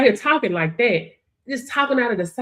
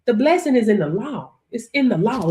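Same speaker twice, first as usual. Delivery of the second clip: ordinary talk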